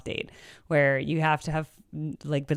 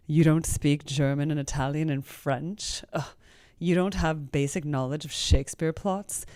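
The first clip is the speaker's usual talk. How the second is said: elitist. Retold or imitated. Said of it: "be all elitist about it".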